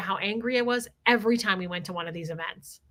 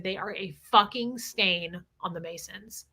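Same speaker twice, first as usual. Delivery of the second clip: slow, lower emphatic repeat; retold fired-up verdict; 3 semitones lower, 4 dB quieter than usual. Teller repeats a Mason's verdict on the Jesters, slow and emphatic. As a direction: quote his condemnation word by slow word. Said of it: "He was so fired up about it".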